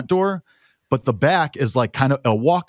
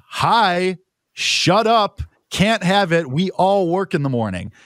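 higher-pitched retold scolding; mad; 6 semitones higher, slower than usual. Housemate telling guests at the door to shut up, mad. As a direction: tell them off, mildly worked up. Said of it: "I was mad. Like, I was".

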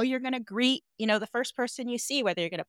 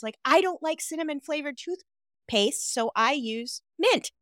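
ordinary talk, nothing marked

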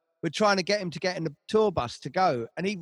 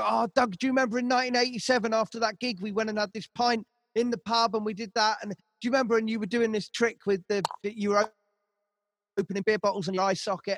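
fast, higher, gushing fan chatter; eager fan; 4 semitones higher than usual. Retold or imitated. Fan cornering Doug after a gig, eager fast chatter. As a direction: rattle it off like an excited old fan. Fans quoted reminiscing to Doug.

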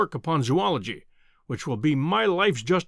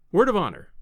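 higher, lighter earnest pledge; earnest visitor; 4 semitones higher than usual. Acted. Visitor promising secrecy to the professor, earnest. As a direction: answer with an eager, sincere pledge.

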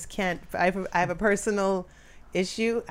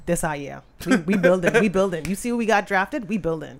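louder, boastful hype-man chant; hyped fan; 7 dB louder than usual. Retold or imitated. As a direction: pump it up like a proud fan. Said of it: "He's like".

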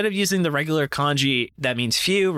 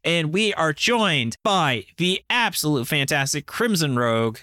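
announcer voice; 3 semitones higher, slower than usual. Real, not acted. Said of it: "I'm using my announcer voice".

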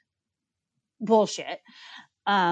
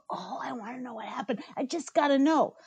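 mock eager viewer; 3 semitones higher, 4 dB quieter than usual. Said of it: "makes you go".

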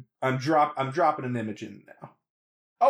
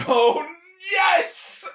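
high, exultant cry of approval; thrilled; 4 dB louder than usual. Real, not acted. Co-host hears who runs the soundtrack, thrilled. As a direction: let it leap up on the second word. Delighted reaction to name reveal.

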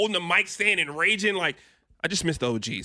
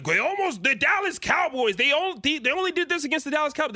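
mocking imitation; 5 semitones higher than usual. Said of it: "you keep saying, like".

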